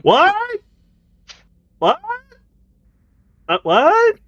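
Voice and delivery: high, loud what; mock shouting. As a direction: yell it like you can't hear. Mock deafness shouted back.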